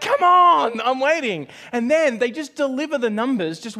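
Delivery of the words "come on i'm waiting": high, loud "Come on", impatient; impatient shout. Retold or imitated. Student waiting for results, impatient and loud. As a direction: urge the phone line on, impatient and loud. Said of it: "I'm like".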